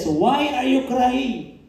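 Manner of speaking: slow, solemn voice of the Lord; voice of God. Acted. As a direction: let God ask it gently and slowly. The Lord speaking to Moses. (mabagal at taimtim na tinig ng Panginoon)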